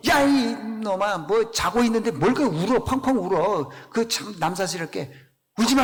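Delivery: lightly voiced gruff rebuke; mock scolding. Jesus imagined scolding the mourners, mock rebuke. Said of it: "예수님이 그럴 거 아니겠어요?".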